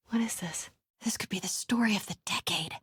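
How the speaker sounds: stunned whisper; awed and under the breath; soft shocked whisper. Real, not acted. Discovering Norman's secret.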